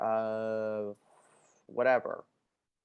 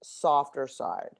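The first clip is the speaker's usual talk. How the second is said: soft; 3 semitones lower, much slower than usual. Real, not acted. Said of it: "it brings out a different side of me".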